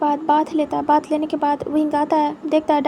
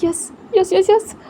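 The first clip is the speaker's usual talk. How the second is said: high, loud excited cheer; overjoyed shout of yes; jumping for joy; 4 semitones higher, 4 dB louder than usual. A narrator's reading. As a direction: burst out with giddy joy. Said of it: "उछल पड़ता है".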